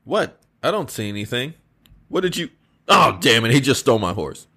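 concerned king, gently urging rest; King Arthur voice. Acted.

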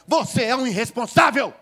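loud, high scolding of a careless brother; scolding sermon. Retold or imitated. Eldest brother lecturing his indebted sibling, loud and scolding. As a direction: give the reckless younger brother a real telling-off. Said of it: "O mais velho dá aquele sermão".

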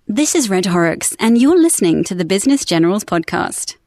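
British-accented podcast voiceover. Shown as a demonstration. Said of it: "American accent soon after the British one".

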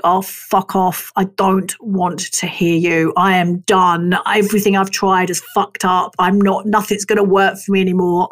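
a tired, low grumble of giving up; weary defeat. Retold or imitated. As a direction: sound done with everything, drained. Quoting her defeated self.

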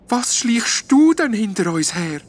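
high, slow whispered ghost question. A narrator's reading. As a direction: hiss it so nobody else hears. Ghost sneaking after the elf.

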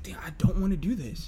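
breathy whispered inner voice. Retold or imitated. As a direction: whisper it to yourself. Inner voice quoted.

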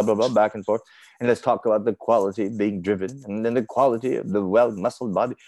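a light, fast mock British gentleman's patter; a hint of a put-on British accent, half-joking; faux British accent. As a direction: play it like an old-fashioned British toff paying compliments, lightly. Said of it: "I have this faux British accent".

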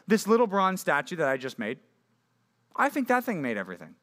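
high mocking voice, pleased with himself; mock idol worshipper. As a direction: ham up a clueless worshipper proud of his statue. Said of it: "when people say".

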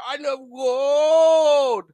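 high, slow, hammed-up Dutch accent; a mock Dutch accent quoting a comedy villain; Goldmember's Dutch accent.

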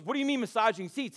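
high, baffled disbelief; mock baffled question about the car seats; incredulous friend. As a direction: ask it like you can't believe your ears. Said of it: "And he goes".

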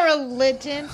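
helpless giggly squeak; laughing. Real, not acted. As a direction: crack up while repeating the word. Cracking up at religion joke.

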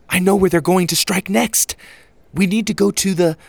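high, loud and eager; excited. A narrator's reading. Susie reading the guidebook, excited. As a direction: burst out with the discovery.

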